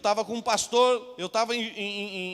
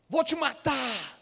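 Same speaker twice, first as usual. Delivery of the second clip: gunman's threat; 2 semitones higher, much slower than usual. Retold or imitated. Gunman threatens the praying pastor, slow and cold. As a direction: draw the threat out slowly and coldly.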